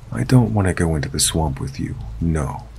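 quick, firm refusal under fear; firm but afraid. Retold or imitated. Refusing the old man in the van, fast and firm through fear. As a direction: push the no out fast, trying to sound steady. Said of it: "as firmly as my overwhelming fear would allow".

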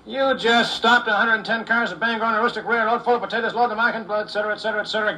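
exasperated rant. Acted. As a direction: list it all out in disbelief. Engineer fuming at trapper.

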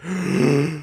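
high drawn-in yawn; imitated massive yawn. Teller mimicking a woman behind him, exaggerated yawn. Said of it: "like, this massive yawn".

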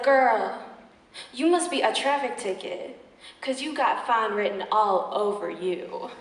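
slowing into a cheesy punchline; lightly mock a smooth-talking player; mock player pick-up line. Suitor trying a line on her, mock player. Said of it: "one of his fake-ass playalistic lines".

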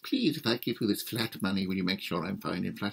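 lightly voiced begging official; pleading treasurer. Treasurer begs the friar.

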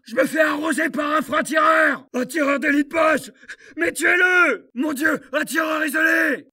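yelling under heavy fire; shout, desperate and pinned down; panicked shouting. Acted. Soldat pris sous le feu. (cris de panique)

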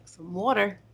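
"water" repeated with the rounded aw vowel; Eastern "water". Retold or imitated. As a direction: say "water" as wawter, Eastern style. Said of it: "this Eastern girl saying water".

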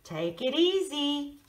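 southern drawl. Acted. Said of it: "Uncle Ed has a southern drawl".

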